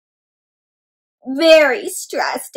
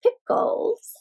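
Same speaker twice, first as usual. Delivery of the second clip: giggly hiding egg; 4 semitones lower than usual. Acted. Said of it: "this one says".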